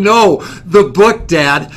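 protesting son. Retold or imitated. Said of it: "And Adrian was going".

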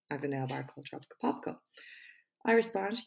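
measured TED-style delivery with pauses; TED Talk voice. Pretend. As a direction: read it like a prepared TED Talk, punching key words. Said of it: "in my best TED Talk voice".

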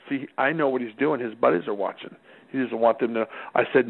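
ordinary talk, nothing marked

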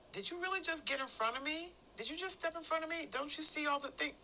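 high-pitched, incredulous complaint; annoyed at-home voice. Acted. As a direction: act affronted at being cut in front of. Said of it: "I may sound something like this".

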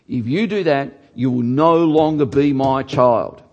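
acted parental threat, building in volume; imitating frustrated parent. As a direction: lay down the law like a fed-up parent. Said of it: "when they've been frustrated with their children".

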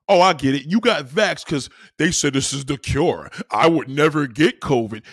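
loud sneering mock voice; mocking vaxxed commenter. Streamer mocking a commenter, loud sneering voice. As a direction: sneer it back at them loudly. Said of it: "mocks a vaccinated commenter".

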